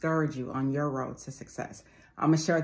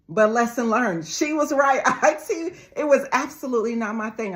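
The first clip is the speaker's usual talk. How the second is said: laughing; 7 semitones higher, 6 dB louder than usual. Real, not acted. Laughs at her old teacher's verdict.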